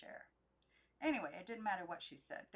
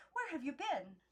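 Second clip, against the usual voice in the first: louder, higher demand; calling out; 7 semitones higher, 5 dB louder than usual. Acted. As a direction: call up to her. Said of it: "the two aunts called out".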